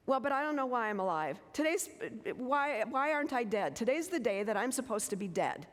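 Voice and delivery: a hint of the mother's frantic despair; imitating distraught mother. Daughter imitating her upset mother on the phone, mild agitation.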